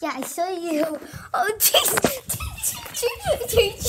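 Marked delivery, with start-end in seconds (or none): 1.3-3.9 high startled laugh. Real, not acted. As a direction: laugh at being caught. Caught while hiding.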